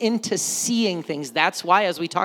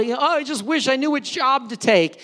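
higher-pitched wishful sigh in prayer; lifted, longing plea; wishful pleading; 5 semitones higher than usual. Acted. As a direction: voice someone wishing aloud for guidance.

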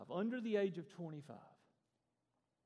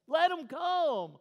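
drawn-out, high, very loud command; ticked-off shout, stretching each word; Jesus; 12 semitones higher, 16 dB louder, much slower than usual. Acted. Ticked teacher ordering children let through, slow angry shout. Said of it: "he was ticked".

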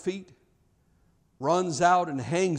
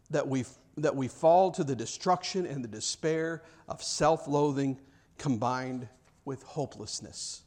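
ordinary delivery

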